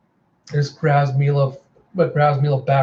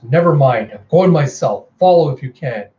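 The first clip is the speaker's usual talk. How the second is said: louder, dismissive leader; impatient command; 5 dB louder than usual. Acted. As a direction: brush off the underlings forcefully. Mother impatiently takes over command.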